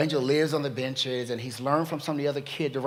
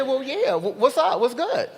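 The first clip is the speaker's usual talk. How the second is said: high, loud, cocky and laughing; sassy street kid; 11 semitones higher, 8 dB louder than usual. Retold or imitated. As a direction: brush her off with swagger. Sassy street kid answering woman.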